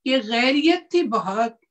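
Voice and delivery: measured verse recital; ghazal recitation. Acted. Poet finishing a couplet for the audience, measured recitation. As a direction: recite it as the closing line of a couplet.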